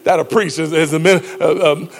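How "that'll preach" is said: preacher's whoa. Retold or imitated. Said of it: "as preachers would say".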